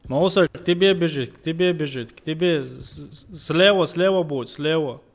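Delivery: loud, urgent warning shout; urgent callout. Real, not acted. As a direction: call it out fast to a teammate. Warning teammate of approaching enemy.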